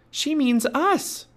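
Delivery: put-on high, slow child voice; Annie realizing. A narrator's reading. Girl telling her companion the warning is theirs, high and drawn out. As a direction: stretch out the alarmed realization. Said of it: "said Annie".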